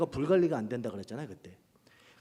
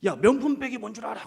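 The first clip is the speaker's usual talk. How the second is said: higher, louder, 명품 hit hard; loud challenge; 8 semitones higher, 5 dB louder than usual. Retold or imitated. Pastor quizzing the youth group, loud and pointed. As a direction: fire the quiz at them, punching 명품.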